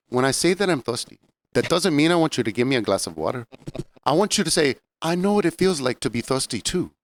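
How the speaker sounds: put-on a touch of Rosie Perez's nineties LA accent, lecturing; lightly imitating Rosie Perez with a childish sound on thirsty. Retelling the film scene to co-hosts, light Rosie Perez accent. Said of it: "I like your Rosie Perez accent".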